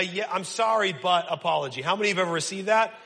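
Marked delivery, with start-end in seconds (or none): 0.0-1.3 dismissive sorry. Retold or imitated. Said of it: "A ... apology".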